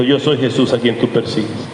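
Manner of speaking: low, grave voice of the Lord; voice of Jesús. Acted. Jesús names himself to Pablo, low and grave. Jesus answers Paul, third account.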